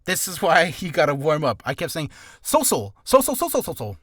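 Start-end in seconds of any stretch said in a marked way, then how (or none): 1.6-4.0 "social" repeated as a jumble, "sosl"; garbled social. Retold or imitated. Showing her tongue slip, garbled repeats. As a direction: mangle "social" like Sims gibberish. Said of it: "I just sounded like I was speaking, uh, Sims gibberish".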